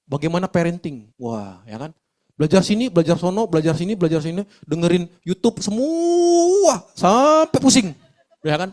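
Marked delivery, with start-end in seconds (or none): 2.3-7.9 mock whining. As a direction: wail it like a parent drowning in advice. Mocking confused parent overloaded.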